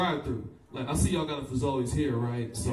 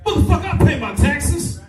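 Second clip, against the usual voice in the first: smoker's angry outburst; 10 semitones higher, 10 dB louder than usual. Retold or imitated. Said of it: "He goes".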